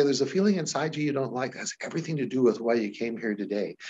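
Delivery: quick, hushed suggestion; fast hypnotist patter. Shown as a demonstration. Hypnotist speeding a client into the feeling, fast. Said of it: "Then I might say".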